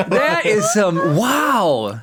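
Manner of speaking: high amused drawl. Real, not acted. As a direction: savor it with a laugh. Amused at pickup line.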